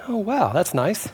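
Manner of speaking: soft, slow, unbothered; mild deadpan acceptance; calm underreaction. Retold or imitated. Owner learning his truck is totaled, calmly underreacting.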